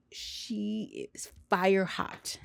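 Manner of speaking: slow, sassy verdict that lets it sink in; slow sassy drawl. Real, not acted.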